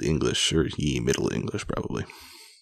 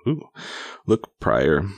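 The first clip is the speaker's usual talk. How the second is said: measured, emphatic read-aloud storytelling; projected storybook reading; story narration; 2 semitones higher than usual. A narrator's reading. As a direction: read an old tale aloud with relish. Reads an old tale aloud.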